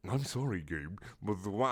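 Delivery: put-on quiet, failed German accent; half-hearted try at a German accent, breaking off; attempted German accent. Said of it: "I got a German accent".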